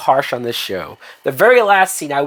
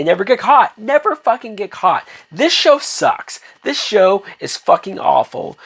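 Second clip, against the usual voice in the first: frustrated rant; 6 semitones higher than usual. Real, not acted. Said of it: "I'm angry".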